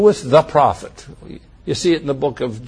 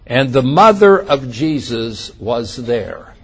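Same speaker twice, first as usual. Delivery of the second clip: mother slowed and leaned on; slow the phrase, weight on mother; stress on mother; 3 semitones lower, slower than usual. Shown as a demonstration. Preacher pointing out John's wording, stressing mother. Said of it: "listen to this phrase".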